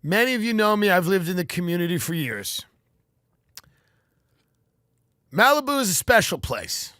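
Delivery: a resident's heartfelt speech at a town meeting; earnest speech. Pretend. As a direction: speak up to a community meeting. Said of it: "I would just say".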